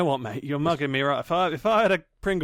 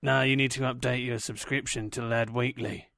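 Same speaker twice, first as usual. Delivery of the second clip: low sleazy salesman; 5 semitones lower, 4 dB quieter than usual. Pretend. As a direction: play a low dodgy salesman. Fake magazine salesman voice.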